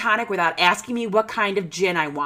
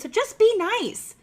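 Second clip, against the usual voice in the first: slow pleading; 11 semitones higher than usual. Real, not acted. Exasperated plea.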